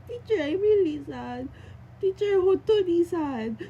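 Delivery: repeating it through tears; teary quote. Real, not acted. (naiiyak na sinasabi)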